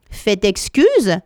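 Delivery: slow, very polite; great politeness. Acted. Elephant child politely addressing the crocodile, slow and courteous. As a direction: draw it out with careful courtesy. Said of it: "avec une grande politesse".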